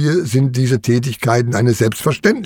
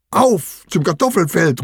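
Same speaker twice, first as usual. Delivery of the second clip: raised-pitch rallying call, no shout; 5 semitones higher than usual. A narrator's reading. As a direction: call the others off on an adventure. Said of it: "ruft Wimmelmax".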